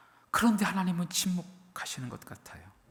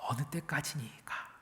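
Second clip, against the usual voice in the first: whispered lament; 5 dB quieter than usual. Acted. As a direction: breathe it out as a soft lament. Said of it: "반복되는 탄식".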